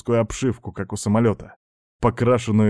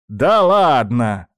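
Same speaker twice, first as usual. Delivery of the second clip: surprised; 6 dB louder, much slower than usual. Acted. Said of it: "сказала Баба Яга".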